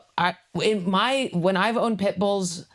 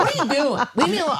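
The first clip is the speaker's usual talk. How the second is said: high, whiny shopper's protest; whiny high mock; 11 semitones higher, 3 dB louder, faster than usual. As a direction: whine it up high like a put-upon teen. Mock customer in a store.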